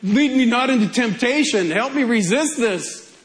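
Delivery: lightly dramatized plea to God; earnest prayer. Acted. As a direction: act out a young man's pleading prayer. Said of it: "little Joe's most earnest prayer".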